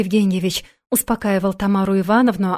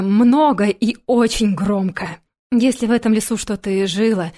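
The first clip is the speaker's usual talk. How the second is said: ordinary delivery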